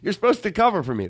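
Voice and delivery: furious high yell at the band. Pretend. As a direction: scream at them for missing notes. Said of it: "I would yell at them".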